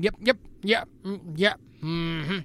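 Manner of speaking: put-on Southern-drawled yeps of a good old boy; short Southern yeps, King of the Hill style; Southern accent. English guys walking round the bottom, super Southern accent. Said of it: "like, super Southern".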